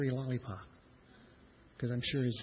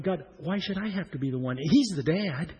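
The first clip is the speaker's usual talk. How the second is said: arguing with God; 4 semitones higher, 4 dB louder than usual. Retold or imitated. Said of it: "arguing with God".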